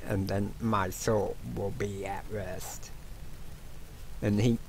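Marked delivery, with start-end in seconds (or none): 0.1-2.9 fading whisper. Acted. Dying ghost's final wish.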